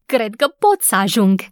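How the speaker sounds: eager exclaim. A narrator's reading. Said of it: "izbucni în râs".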